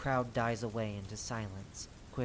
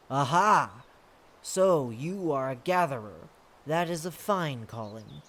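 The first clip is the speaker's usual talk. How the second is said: loud burst of recognition, then settling; hearty approval from a stately lord; approving exclamation; 4 dB louder than usual. Acted. The lord realizes the scout is a gatherer, approving exclamation.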